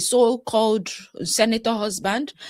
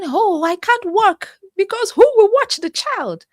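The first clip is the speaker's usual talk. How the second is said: mock complaining; 10 semitones higher than usual. Mimicking a husband's excuse.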